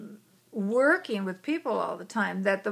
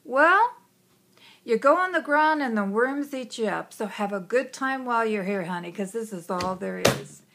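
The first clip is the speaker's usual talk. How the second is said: gruff dad voice; 3 dB louder than usual. Retold or imitated. Father tells daughter about death, blunt and loud. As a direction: boom out the answer like a blunt father.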